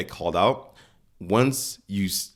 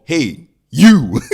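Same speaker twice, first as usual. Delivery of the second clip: sudden loud, high call; scary parent shout; 7 semitones higher, 13 dB louder than usual. Acted. Parent scaring the life into the kid, sharp shout. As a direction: shout to startle a child into stopping. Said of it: "scare the life into the kid".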